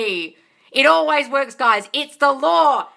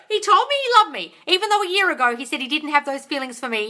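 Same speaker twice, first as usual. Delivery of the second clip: higher and louder, gushing; a delighted second reading; excited reread; 4 semitones higher, 3 dB louder than usual. Shown as a demonstration. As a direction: reread it thrilled. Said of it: "Oh my God!".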